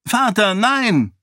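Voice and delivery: high, loud desperate cry to her father; screaming. A narrator's reading. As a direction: cry out to warn him. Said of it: "schrie Sarene". (verzweifelter Schrei)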